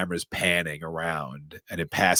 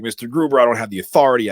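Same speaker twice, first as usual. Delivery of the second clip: flustered; 5 semitones higher, 9 dB louder, faster than usual. Retold or imitated. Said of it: "Deputy Dwayne's like".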